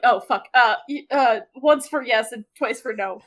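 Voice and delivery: flustered outburst. Retold or imitated. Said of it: "he's like".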